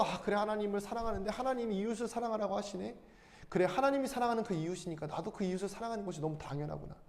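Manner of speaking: soft, quiet musing to yourself; inner realization. Retold or imitated. Believer quietly realizing they should love their neighbor, soft and musing. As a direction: think it through gently, as if it just dawned on you. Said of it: "내가 너무 하나님을 사랑해서".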